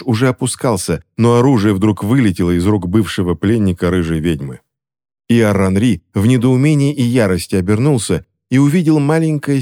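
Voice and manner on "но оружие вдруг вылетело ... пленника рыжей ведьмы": plain reading voice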